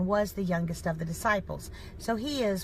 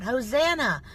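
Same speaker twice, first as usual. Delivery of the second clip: raised, slightly louder crowd cry, only lightly acted; mild retold shout; 3 semitones higher, 5 dB louder than usual. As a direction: call it out like a welcoming crowd, held back. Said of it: "They shouted out".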